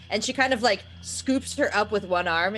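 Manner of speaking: usual speaking voice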